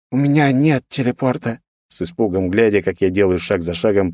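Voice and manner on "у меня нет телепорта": trembling voice. A narrator's reading. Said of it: "произнёс он дрожащим голосом".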